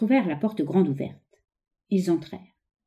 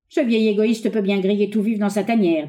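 mildly indignant, higher-pitched grumble; indignant refusal; 4 semitones higher, 4 dB louder than usual. Acted. Woodcutter refusing to save the old miser, indignant. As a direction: voice a woodcutter's scorn, lightly acted.

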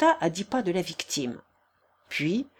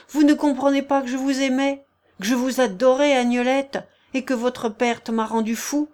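passionate outburst; 4 semitones higher, 4 dB louder than usual. Acted.

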